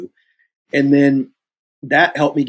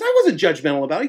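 retold defensive denial; 5 semitones higher, faster than usual. Retold argument, director denies it.

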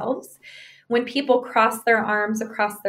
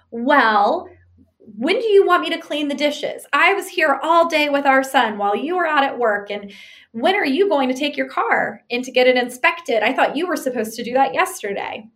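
defensive; 3 semitones higher than usual. Retold or imitated. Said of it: "going to likely do what's the second horseman, which is defensiveness".

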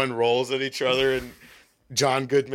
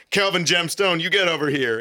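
mock stern summons; 7 semitones higher, 4 dB louder than usual. Father summons son in retold scene.

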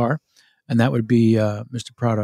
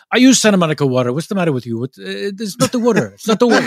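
a hint of an Italian pizza maker's accent, faster; 5 semitones higher, much faster than usual. Pizza owner scoffs at the imported water, mild Italian accent. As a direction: lightly mimic the old Italian owner, incredulous. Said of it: "He was not affecting a voice".

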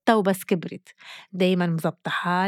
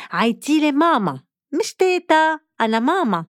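insistent grandma; 6 semitones higher, 3 dB louder than usual. Retold or imitated. Grandmother insisting on being called mama.

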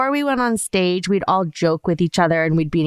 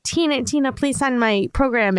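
put-on eager kids; 6 semitones higher than usual. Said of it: "a bunch of kids were like".

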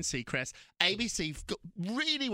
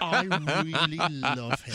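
laughing confession; 7 dB louder, much slower than usual. Real, not acted.

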